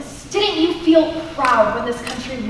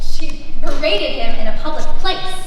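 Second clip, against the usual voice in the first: louder, insisting; indignant retort; 7 dB louder than usual. Acted. Wife defends her husband against the guest, loud and indignant. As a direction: snap back in his defence. Heated argument at dinner.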